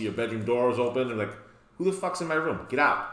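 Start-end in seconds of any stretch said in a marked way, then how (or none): 1.8-3.1 higher-pitched acted outrage; mock indignation. Party host finding someone in the bedroom, mock indignant. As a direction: play the annoyed host ordering intruders out.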